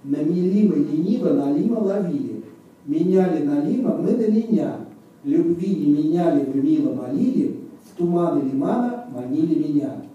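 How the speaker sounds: measured, phrase-by-phrase recitation; slow tongue twister. Shown as a demonstration. Demonstrating the fishermen tongue twister for listeners, slowly first. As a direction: say each phrase slowly and distinctly. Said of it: "I'm going to say it slowly first".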